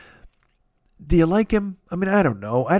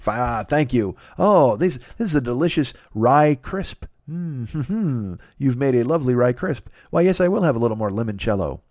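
mock polite date. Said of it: "this is my fantasy date".

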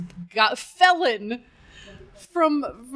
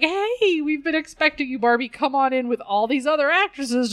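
lightly voiced laid-back Hollywood host; cool sixties dude; 4 semitones higher than usual. Director welcoming Barbie at his door, lightly acted cool greeting. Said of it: "some dude with, like, cool".

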